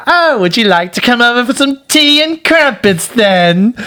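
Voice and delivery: very high, mock-polite British trill; catty British politeness, sweetly sarcastic. Wife taunting the neighbours with tea, very British. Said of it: "but very British".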